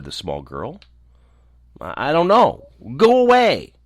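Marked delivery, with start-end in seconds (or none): 1.8-2.7 high, loud, stammered protest; frightened little girl. A narrator's reading. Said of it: "she was frightened and drew back". 3.0-3.7 loud, very high cry of refusal; frightened outburst. A narrator's reading. Frightened girl drives gnome away.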